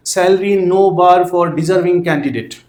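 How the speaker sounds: very slow, word by word, spelled out for students to write; slow dictation. Shown as a demonstration. Teacher dictating an ad line to students, very slow, word by word. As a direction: dictate each word slowly so the class can copy it.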